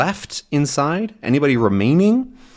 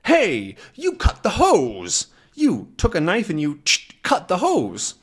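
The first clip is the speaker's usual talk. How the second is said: accusing shout; 7 semitones higher than usual. Acted. Fireman accusing the saboteur.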